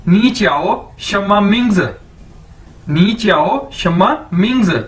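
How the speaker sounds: नी च्याओ शम्मा मिंग्स word by word, falling at the end; model phrase. Shown as a demonstration. Teacher showing learners how to ask a name, model phrase. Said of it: "तो आप कैसे पूछेंगे?".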